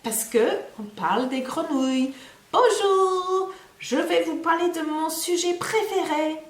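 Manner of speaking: high squeaky puppet frog; Jean puppet voice. Acted. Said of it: "Jean says hello".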